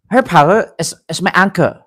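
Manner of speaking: halting put-on Chinese accent; lightly imitated Chinese-accented English; mock Chinese accent. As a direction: fake a Chinese accent, stumbling slightly. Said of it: "Chinese accent".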